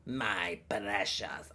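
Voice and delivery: slow whispered creature croak; soft, slow whispered impersonation attempt; Gollum. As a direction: whisper it, drawn right out. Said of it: "He goes".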